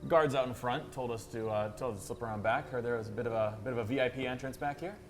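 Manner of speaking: lightly voiced confident liar; smooth bluff. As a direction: talk your way in casually. Player bluffs in character.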